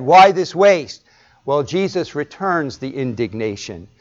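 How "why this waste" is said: indignant. Acted. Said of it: "the disciples are indignant and said".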